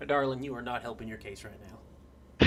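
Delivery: put-on quiet warning in a Southern US accent; thick southern accent. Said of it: "he's got a thick southern accent".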